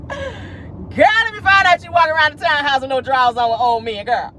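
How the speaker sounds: high-pitched gossip squeal; squealing tease. Real, not acted. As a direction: shriek it, then tease her.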